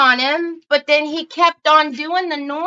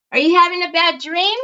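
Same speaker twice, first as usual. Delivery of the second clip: higher, quick, cooing question; worried pet-parent voice, higher than usual; concerned dog talk; 4 semitones higher, faster than usual. Real, not acted. Worried owner talks to her dog.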